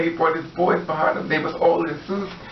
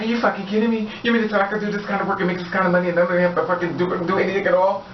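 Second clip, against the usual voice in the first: higher, rushed mock disbelief; acted incredulity; 5 semitones higher, much faster than usual. She questions her friend about the easy money, acted incredulity. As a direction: rattle it off high, imitating her astonishment.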